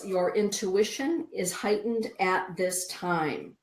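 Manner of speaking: deliberate, emphatic reading of a card's message; oracle card proclamation. Acted. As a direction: announce it grandly, stretching out the message.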